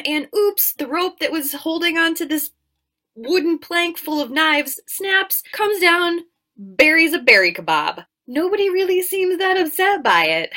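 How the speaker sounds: loud delighted narration; gleeful excitement. Real, not acted. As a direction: rise with delight at the gore. Gory kill described gleefully.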